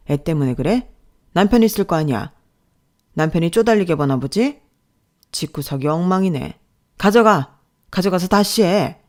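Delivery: contemptuous telling-off, loud on the orders; needle, then dismiss sharply; scolding boss. Acted. Boss to employee redoing paperwork, scornful scolding. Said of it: "혼이 나고 있었어요".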